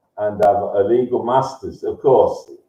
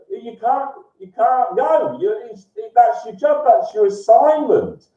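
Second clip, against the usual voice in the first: high-pitched jeering rant; needling, worked-up high delivery; mocking taunt; 8 semitones higher than usual. Real, not acted. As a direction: goad opponents in a raised, high voice. Taunting opponents with their assignment.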